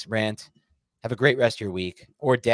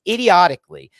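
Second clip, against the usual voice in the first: angry jab; 7 semitones higher, 11 dB louder than usual. Real, not acted. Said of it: "And I'm back to being angry".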